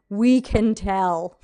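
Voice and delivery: slow, drawn-out quote; deliberate verdict. Retold or imitated. Audiobook fans telling the new narrator off, slow and deliberate. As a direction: stretch each word out slowly for emphasis.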